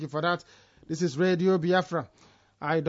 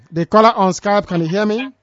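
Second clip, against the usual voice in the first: raised voice calling out; to someone hard of hearing; 4 semitones higher, 7 dB louder than usual. Real, not acted. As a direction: call loudly to the caller. Calling out to caller.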